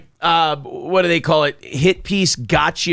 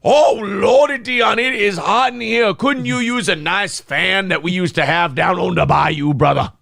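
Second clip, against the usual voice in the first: higher, hammed-up mock Southern voice; mock Southern accent; 6 semitones higher than usual. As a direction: ham up a fake bayou Southern accent. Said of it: "Dion makes him talk like that".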